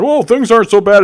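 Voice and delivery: high sing-song mocking whine; mock dismissive. Mocking a climate denier's placating line, high whiny voice. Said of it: "trying to convince".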